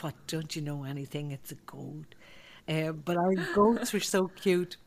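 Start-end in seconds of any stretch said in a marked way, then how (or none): 0.0-2.2 condescending. Retold or imitated. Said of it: "as if it was like".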